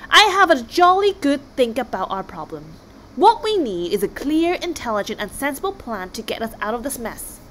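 lightly voiced blustering king, proud and sure; a hint of a self-important chieftain speechifying; pompous Viking king. King Olaf addresses tribe.

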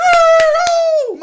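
piercing high scream; shrieking oh. Real, not acted. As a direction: let out a joyful shriek. Screaming then losing voice.

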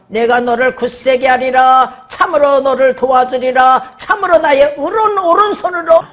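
solemn scripture recital; scripture recitation. Real, not acted. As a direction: recite the verse deliberately. Recites Isaiah verse.

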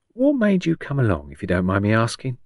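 lightly voiced old Cockney woman, starting high; nosy Cockney patient. Patient asks visitor why she came, lightly nosy Cockney. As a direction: probe politely in a hint of Cockney.

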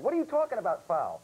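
high-pitched mock indignant yell; retold yell. Retelling how he yelled at the umpire, mock indignant yell. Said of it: "I yelled at the guy".

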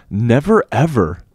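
Never jumps up loud, ever falls back; a boy's loud refusal; cried loudly. A narrator's reading. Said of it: "I cried loudly".

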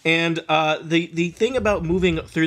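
slow, eerie scene setting; scene narration. A narrator's reading. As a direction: paint the grove slowly.

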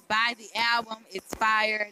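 loud, hyped plug; hyped shout. Real, not acted. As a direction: pump up the album loudly. Rapper hypes own album.

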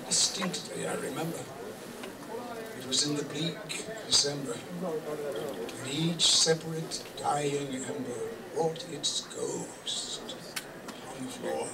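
measured, theatrical verse with long pauses; dramatic poem recitation. Acted. Reciting The Raven as its grieving narrator, dramatic poem recitation. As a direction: recite gothic verse, swelling and sinking with the story.

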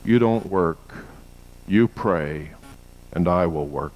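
retelling Cho's quote in a hint of a Korean accent. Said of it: "He said this in a Korean accent".

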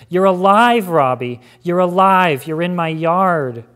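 loud, high, overwhelmed cry; tearful cry. Acted. Sister finding her lost brother alive, loud tearful cry. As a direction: cry it out, close to tears. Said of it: "shook with tears, repeating the words".

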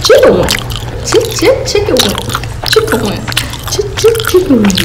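imitating the little girl's chant; sing-song child chant, lightly done; chicken wing Vine. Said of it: "You know that Vine, that little girl?".

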